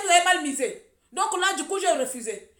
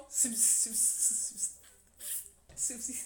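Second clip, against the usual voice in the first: trailing off; 4 semitones lower, 14 dB quieter, much slower than usual. Real, not acted. Stumbling over a word, fading.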